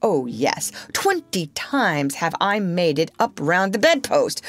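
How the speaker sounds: slow, biting sarcasm; mock the tie with cold irony; dangerously sarcastic. Father to mother over the tie, sarcastic and slow. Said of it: "He became dangerously sarcastic".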